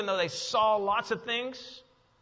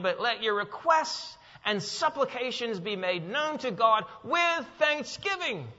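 preaching; 5 semitones higher, 4 dB louder than usual. Acted. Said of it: "preaching scripture".

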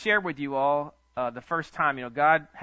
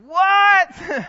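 very high, loud astonished "What?"; jaw-dropping disbelief at the amount; shocked what; 14 dB louder than usual. Retold or imitated. Pastor hearing of three hundred fifty thousand, very high loud shocked what. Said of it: "I'm like".

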